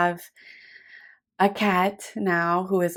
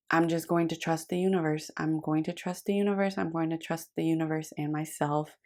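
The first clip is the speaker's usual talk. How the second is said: soft calm self-trust; 8 dB quieter than usual. Retold or imitated. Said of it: "you were like".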